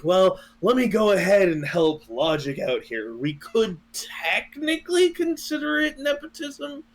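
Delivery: high mock-reasoning voice; lightly hammed impression of a friend. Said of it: "And you were like".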